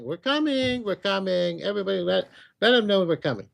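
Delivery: calling out high and eager, imitating an approaching host; excited announcement. The spiritual realm announcing its coming, mock excited call. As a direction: herald crying out the king's arrival. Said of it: "They're saying".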